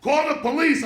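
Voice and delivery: urgent retold call; retold yelling. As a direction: act out calling for help. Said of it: "They're yelling".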